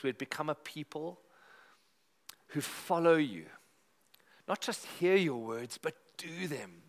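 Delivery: earnest pastor praying aloud; steady, sincere church prayer voice; congregational prayer. Acted. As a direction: lead the room in heartfelt prayer.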